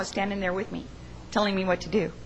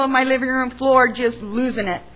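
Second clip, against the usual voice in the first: tearful, slow and loud; 2 semitones higher, 5 dB louder than usual. Real, not acted. At a funeral talk, remembering her mother, openly tearful. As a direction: voice thick with real tears. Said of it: "I was crying".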